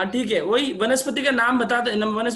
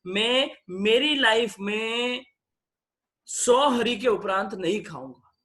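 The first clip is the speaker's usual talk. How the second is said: solemn vow; 3 dB louder, slower than usual. Shown as a demonstration. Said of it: "इतना simple".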